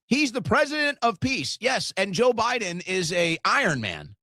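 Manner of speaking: high-pitched mocking echo; sarcastic. Real, not acted. Streamer ridiculing a boomer's claim, sarcastic. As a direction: parrot the claim, then top it sarcastically.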